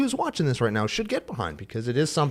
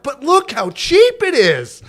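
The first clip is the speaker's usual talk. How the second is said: loud, high, slow punchline; hammed-up penny-pinching boss; cheapskate boss; 13 semitones higher, 7 dB louder, slower than usual. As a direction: stretch it out with gleeful stinginess. Cheapskate boss repeats himself.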